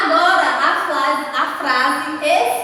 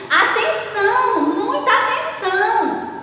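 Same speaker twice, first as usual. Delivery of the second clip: high-pitched announcement; raised, emphatic call for attention; exclamatory reading; 8 semitones higher, 3 dB louder than usual. Shown as a demonstration. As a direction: read it as a warning with an exclamation mark. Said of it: "observaram aí na entonação que eu dei".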